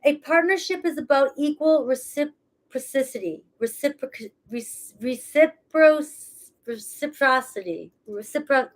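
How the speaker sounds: stumbling through a mouthguard; tongue caught on the mouthguard; wearing a mouthguard. Real, not acted. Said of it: "especially with my mouth guard in".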